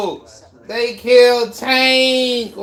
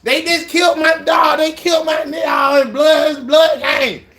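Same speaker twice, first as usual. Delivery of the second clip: outraged shouting; 3 semitones higher than usual. Real, not acted. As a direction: yell your disbelief at the screen. Streamer outraged hunters shot Tank.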